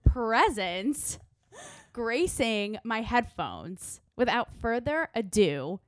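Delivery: breathy radio host voice; sultry narrator. Acted. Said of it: "sexy, sultry voice".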